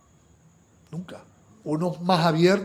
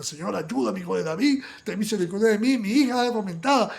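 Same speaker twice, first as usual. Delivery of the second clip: desperate cry; 5 semitones higher, 3 dB louder than usual. Acted. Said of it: "esta mujer no para y grita".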